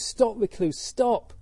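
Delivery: high, loud call to halt; confused shout. Acted. Confused Angulimala calling to the walking Buddha, exasperated shout. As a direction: shout it out in baffled frustration. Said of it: "So he's completely confused".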